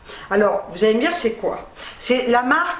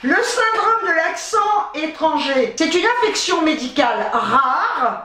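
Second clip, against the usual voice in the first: raised, measured reading voice; reading aloud; 4 semitones higher than usual. Real, not acted. Vlogger reads copy-pasted research to viewers, reading aloud. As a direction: read out a medical definition.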